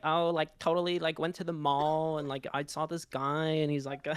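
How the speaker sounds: a hint of a gushing mall-trip influencer, said with a grin; Valley girl influencer. Mocking the influencer voice he just described, lightly imitating a Valley girl. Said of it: "it's like the influencer voice".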